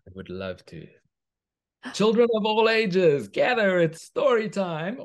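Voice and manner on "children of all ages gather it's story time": put-on high, loud sing-song call to the children; storyteller call. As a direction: summon the little ones to story time. Calling kids to story time.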